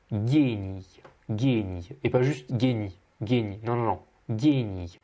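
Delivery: "génie" with an exaggerated clipped final i; exaggerated short i. Shown as a demonstration. Teacher exaggerates the short i for the example. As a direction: overdo the short i at the end of "génie". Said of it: "si j'exagère bien".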